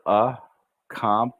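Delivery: accomplish said slowly with the first C barely heard; soft first C. Shown as a demonstration. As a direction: slide over the first C in accomplish. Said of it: "that first C we don't say".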